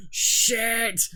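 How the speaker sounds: sudden yelled curse; shouted swear. Retold or imitated. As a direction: blurt it out in a yell. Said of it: "and just shouted".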